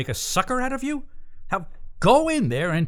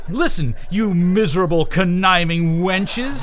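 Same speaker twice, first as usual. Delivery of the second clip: angry dressing down; 2 semitones higher, 5 dB louder than usual. Pretend. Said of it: "I'll read them the riot act".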